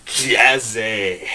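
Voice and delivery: jazzy catchphrase; shaky jazz hands call. Shown as a demonstration. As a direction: say it with a hand shake. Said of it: "put a bit of the shake in the right hand and say".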